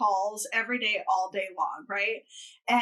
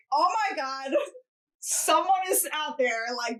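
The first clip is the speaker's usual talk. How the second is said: mock panic; 2 semitones higher than usual. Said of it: "I was in a full panic".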